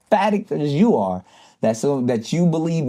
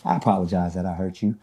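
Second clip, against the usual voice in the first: sincere apology; 6 semitones lower than usual. Shown as a demonstration. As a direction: say sorry like you mean it. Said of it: "rise to a higher frequency and say".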